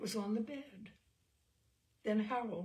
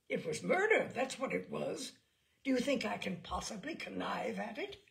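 outraged; 4 semitones higher, 5 dB louder than usual. Acted. Father shocked, outraged.

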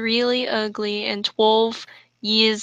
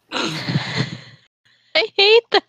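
slow, higher, through laughter; slow laughing groan; laughing disgust; 8 semitones higher, much slower than usual. Real, not acted. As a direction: drag it out, laughing in dismay.

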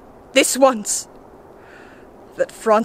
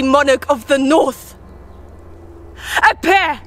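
commanding invocation; 2 semitones higher than usual. Acted. Calling spirits of the north to appear, commanding invocation.

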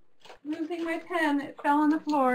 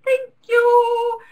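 high mock thanks; 11 semitones higher, 7 dB louder than usual. Sudden high thanks mid-sentence.

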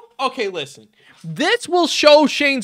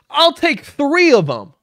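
higher-pitched mocking quote; mocking imitation; 4 semitones higher than usual. Reactor quotes Shane's bit back, mocking and higher. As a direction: mimic the line back with scorn, higher. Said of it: "he goes".

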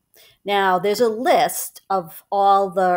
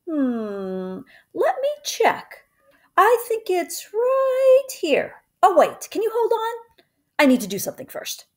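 teasing mother; 11 semitones higher than usual. Acted. Mama teasing her son before revealing the news, high playful voice. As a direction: drag it out to tease him.

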